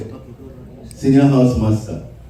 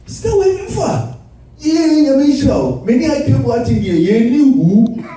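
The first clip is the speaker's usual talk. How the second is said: high mock shout; 4 semitones higher than usual. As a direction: shout it high like a cheeky boy. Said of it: "I say".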